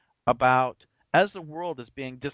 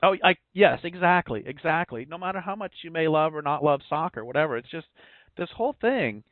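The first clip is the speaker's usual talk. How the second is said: thin reedy voice; 4 semitones higher than usual. Real, not acted. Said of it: "I'll stop having a, a really thin, reedy voice as I rant".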